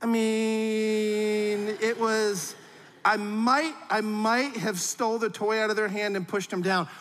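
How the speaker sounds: lightly voiced guilty child mumbling it out; sheepish kid. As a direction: stall like a kid admitting guilt. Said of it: "this is how they say it".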